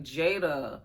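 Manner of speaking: high, loud calling out to Jada. Retold or imitated. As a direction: shout her name in disbelief.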